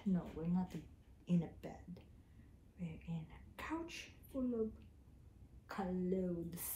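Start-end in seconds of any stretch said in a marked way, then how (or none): 2.8-6.7 soft unvoiced whisper. Real, not acted. Owner whispering to the dog on the couch, hushed. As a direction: whisper it so the pet stays calm.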